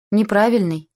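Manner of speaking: high-pitched mild protest; child's shout. A narrator's reading. Girl complains to father about the plane, mild shout. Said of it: "крикнула Марго".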